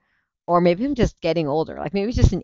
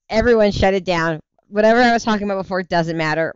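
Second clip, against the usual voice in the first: calling out; 3 semitones higher, 4 dB louder than usual. Real, not acted. Host abruptly calling to chat.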